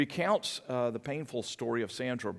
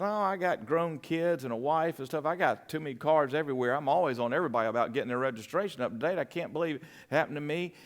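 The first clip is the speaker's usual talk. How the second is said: flustered rambling; 4 semitones higher, 4 dB louder, faster than usual. Retold or imitated. Explaining himself to the officer.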